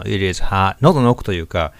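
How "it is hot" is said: "It is hot" from the back of the throat; throat resonance. Shown as a demonstration. Teacher showing learners the throat sound, throat-resonant. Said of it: "喉の奥の".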